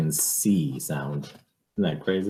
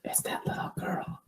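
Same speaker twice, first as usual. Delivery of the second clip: whisper; 11 dB quieter than usual. Real, not acted. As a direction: lean in and whisper it. Hushed aside while reading.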